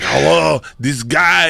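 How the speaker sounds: a bad impression of the actor saying hello; Mark Wahlberg impression. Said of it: "It's not it".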